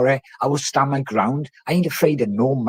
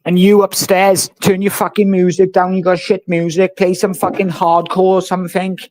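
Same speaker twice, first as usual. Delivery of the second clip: shouting upstairs; 3 semitones higher, 5 dB louder than usual. Real, not acted. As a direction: yell up at the neighbours. Yelling at noisy upstairs neighbours.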